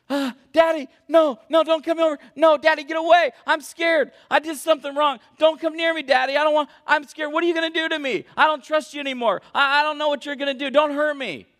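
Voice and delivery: put-on high-pitched, pleading panicked toddler; acted frantic child begging to be left alone; terrified child. Three-year-old hiding from daddy, terrified, high pleading.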